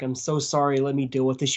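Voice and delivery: calm, even-toned apology to a client; understated, matter-of-fact sorry; unemotional apology. Retold or imitated. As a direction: apologize casually, without any emotion. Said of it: "not emotional. I apologize to my client".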